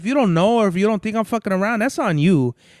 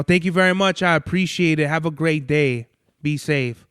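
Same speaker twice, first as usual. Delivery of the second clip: polite cashier thanks; 3 semitones lower than usual. Retold or imitated. Showing store workers how to thank customers, warm and polite. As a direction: sound like a cheerful cashier who means it. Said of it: "how the workers should be talking to me".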